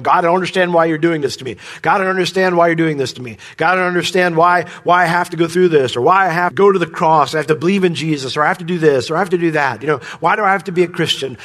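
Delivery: fast, aggrieved rant at God; complaining to God. Retold or imitated. Preacher mimicking a believer complaining to God, fast and aggrieved. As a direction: rattle off the grievances in a whiny rush. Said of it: "keep blasting him and going".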